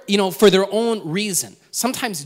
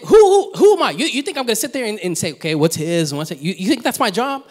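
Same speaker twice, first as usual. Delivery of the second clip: mock-indignant Jesus, who me?; hammed-up disbelief at being asked to judge; incredulous retort; 3 semitones higher, 4 dB louder than usual. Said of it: "like, saying".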